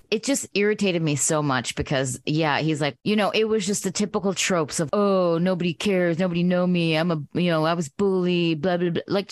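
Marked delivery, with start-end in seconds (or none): 4.9-9.0 lightly imitated self-pitying moan; mock whiny complainer. Podcaster mocking the bomber's tropes of nobody cares, mock whiny. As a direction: recite the tropes in a mildly whiny, dismissive mimicry. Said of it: "you whiny little fucker".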